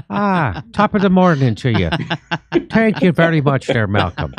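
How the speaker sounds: hint of a stage Irishman thanking his cohost; mock Irish accent. Host thanks Malcolm in a mild mock Irish accent. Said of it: "I still prefer your Irish accent".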